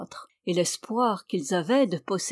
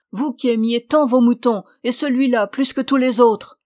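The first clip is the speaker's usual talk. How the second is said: reproche nettement plus fort et plus haut; protester, incrédule, à pleine voix; protestation stupéfaite; 4 semitones higher, 8 dB louder than usual. Acted. Mari stupéfait qui proteste. (le mari proteste, stupéfait, que sa femme aimait ce mouton)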